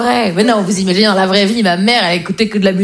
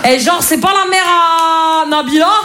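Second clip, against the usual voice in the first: mocking teen voice; 6 semitones higher than usual. Teens asking about old star.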